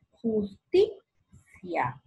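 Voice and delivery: "Justicia" slow as jusTI, pause, cia; stress on TI. Shown as a demonstration. Teacher asking where the force is, stressed TI in "Justicia". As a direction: lean on TI in "Justicia" and stop. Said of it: "Dónde está la mayor fuerza".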